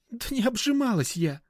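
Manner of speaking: high tearful exclamation; tearful cry. A narrator's reading. Anya protesting to jealous Mishka, tearful. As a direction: cry it out near tears. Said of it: "воскликнула Аня со слезами в голосе".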